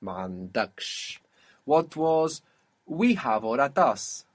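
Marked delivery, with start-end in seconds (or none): 0.0-1.2 "Mandaksh" low and soft, weight on DAKSH; stress on last syllable. Shown as a demonstration. Teacher illustrates the rule, stressing the end of Mandaksh. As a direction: let the final syllable of "Mandaksh" take the accent. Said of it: "it will attract the accent".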